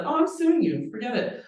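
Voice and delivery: high, loud mock threat; defiant threat. Imagined brother threatening the broker with a lawsuit, defiant.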